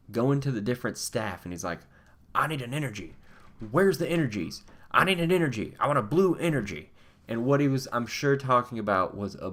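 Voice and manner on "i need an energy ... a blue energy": frantic mock pleading. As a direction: pitch climbing, urgent and pushy. Man frantically asking staff for energy.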